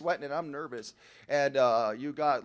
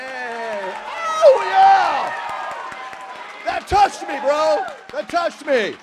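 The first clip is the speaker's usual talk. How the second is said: much higher and louder, hammed-up enthusiasm; mock rapture; 11 semitones higher, 11 dB louder, much slower than usual. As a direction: gush like an overexcited fan, mocking them. Mocking members' applause.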